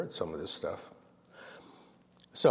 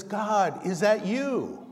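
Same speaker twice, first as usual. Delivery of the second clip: hopeful hiker; 8 semitones higher, 3 dB louder, much slower than usual. Acted. Hiker asks God hanging.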